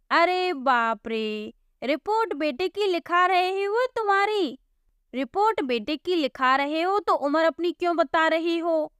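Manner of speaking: mock-despairing constable; exasperated policeman. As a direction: throw up your hands at him.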